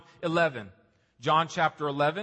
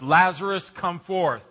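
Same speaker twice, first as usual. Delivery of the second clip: calling Lazarus out, louder; 6 dB louder than usual. Acted. Pastor voicing Jesus calling Lazarus from the tomb, loud summons. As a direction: call into the tomb with authority. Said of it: "he said with a loud voice".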